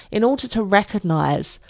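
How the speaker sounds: speaking through a yawn; words stretched by a yawn. Real, not acted. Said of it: "I'm yawning there".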